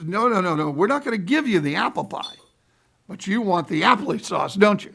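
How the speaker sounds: mock waitress refusing, firmly insisting; insistent waitress. Waitress voiced in retold story.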